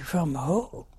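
hushed unvoiced From who; whispered question. Nun asking her mother about the money, whispered. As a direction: whisper it in disbelief. Surprised at the thousand dollars.

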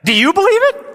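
high, loud rising challenge; mock question. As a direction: toss it out as a teasing jab. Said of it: "mocking question to gospel".

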